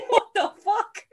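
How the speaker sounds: high, loud outraged yelp through laughter; hammed-up owners in outrage; laughing mock yell. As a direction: squeal it while laughing. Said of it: "They come in and go".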